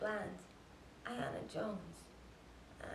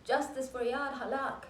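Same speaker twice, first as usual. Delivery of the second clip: mild imitated protest cry, raised pitch; retold screaming; 4 semitones higher, 3 dB louder than usual. Imitating Yara at her window at night, retold protest scream. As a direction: call out the slogans higher, short of a scream. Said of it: "She was screaming out her window".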